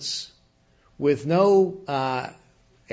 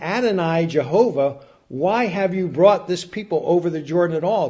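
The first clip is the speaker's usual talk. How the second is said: lightly acted appeal, louder and higher; calling out to master; 3 semitones higher, 4 dB louder than usual. Joshua calling out to his master, mildly acted appeal. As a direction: raise the voice in a mild imploring call. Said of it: "calling out to his master".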